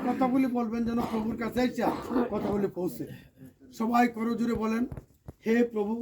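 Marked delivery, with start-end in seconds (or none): 5.5-5.9 solemn prayer, phrase by phrase for echoing; leading a prayer. Acted. Priest leading a memorial prayer for the departed soul. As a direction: pray aloud so the crowd can repeat each phrase.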